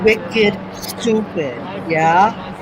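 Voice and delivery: put-on light joking Boston accent. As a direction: drag out "wicked stupid" in a Boston accent. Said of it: "to use my Boston accent".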